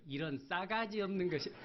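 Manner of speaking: a light Jeolla-dialect scold; mock-scold in Jeolla dialect. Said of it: "전라도 버전으로". (가볍게 흉내 낸 전라도 사투리 꾸지람)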